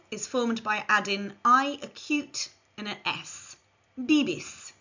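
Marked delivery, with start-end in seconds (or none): 4.0-4.7 "bibis" with b sounds, falling; model Spanish verb. Shown as a demonstration. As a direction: say "bibis" clearly for learners. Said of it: "Repeat after me".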